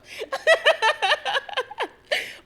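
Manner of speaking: squealing laugh; loud giggling burst; high laugh. Real, not acted. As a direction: breaks up laughing. Laughs after the quote.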